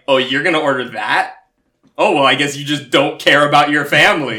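a hint of a guilt-tripping grandmother; guilt-tripping Jewish grandma. Grandma shaming a grandkid over an order, lightly voiced. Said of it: "the Jewish grandma in me that's like".

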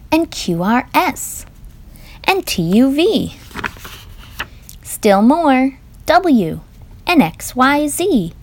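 lively, sing-song picture-book reading; reading to children. Acted. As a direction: read it like a bedtime book for little ones. Parent reads picture book aloud.

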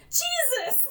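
high, sharp mock cry of pain; hammed-up pained exclamation; pained yelp. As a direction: yelp like your ankle just snapped. Voicing Flash with broken ankle.

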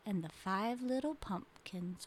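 soft, whispery close to the rhyme; quiet, slowing storyteller; hushed poem ending. Acted. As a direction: let it fade to near whisper.

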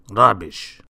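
loud, cross one-word retort; grumpy retort. A narrator's reading. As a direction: dismiss it loudly and crossly. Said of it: "retorted Mister Grumpy".

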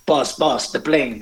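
a hint of the Fantasy Island accent, pitched a bit up; quick playful Fantasy Island impression. Recalling the Fantasy Island actor who lunched with father, light accent. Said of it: "You know, he had that accent".

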